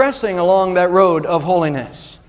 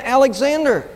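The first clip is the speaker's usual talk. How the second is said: higher-pitched, emphatic answer; raised-voice answer; 7 semitones higher than usual. A narrator's reading. Soldier answers the emperor a second time, higher and emphatic. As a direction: give the name higher, with emphasis.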